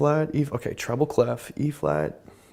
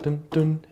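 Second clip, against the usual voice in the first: hummed notes; 7 semitones higher than usual. Shown as a demonstration. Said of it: "the E flat".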